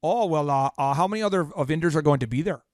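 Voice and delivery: lightly imitated Minnesota accent; a touch of Minnesota in the voice. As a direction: quote her in a mild Minnesotan lilt. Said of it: "she's from Minnesota".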